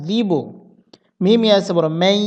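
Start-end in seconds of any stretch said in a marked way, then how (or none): 2.0-2.2 মাই held steady in the nose; nasal ghunnah. Shown as a demonstration. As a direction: linger on the end of মাই as a nasal hum. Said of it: "কিছুক্ষণ স্থির থেকে নাকে নাকে উচ্চারণ".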